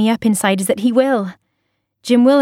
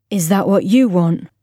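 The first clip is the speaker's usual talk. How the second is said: calm, level. A narrator's reading. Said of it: "his voice is calm, level".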